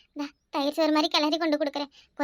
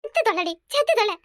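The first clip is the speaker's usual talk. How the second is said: furious yell; 3 semitones higher than usual. Acted. Mother beating daughter in rage.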